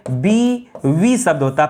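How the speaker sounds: बीवी said slowly with a clear व sound; slow down on बीवी and stress the व; careful slow word. Shown as a demonstration. Teacher correcting students, stressing the correct spelling. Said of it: "बीबी शब्द नहीं होता है".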